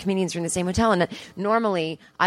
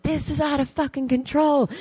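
giddy disbelief; 7 semitones higher than usual. Retold or imitated. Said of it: "I was like".

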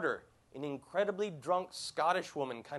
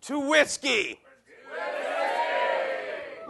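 put-on loud, high drunken toast cry; 10 semitones higher, 5 dB louder, much slower than usual. Host leading the audience in a toast, loud drunken cheer. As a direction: raise the glass and yell it. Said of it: "loud, drunken toast".

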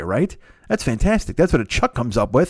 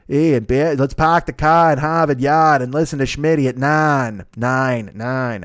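put-on a faltering first try at a Boston accent; half-hearted Boston accent, the r's barely dropped; slower than usual. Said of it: "Boston accent I can never pick up".

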